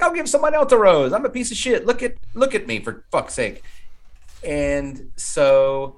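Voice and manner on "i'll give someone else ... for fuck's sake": mock self-pity. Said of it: "And he's like".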